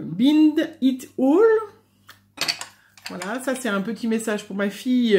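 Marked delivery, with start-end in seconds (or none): 0.0-1.4 English accent. Shown as a demonstration. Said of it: "se moque de mon accent anglais".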